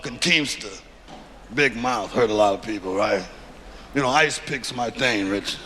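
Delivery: put-on old gangster reminiscing about a hit; Mafia accent. Mobsters swap murder stories, low Mafia accent. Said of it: "his accent is killing me".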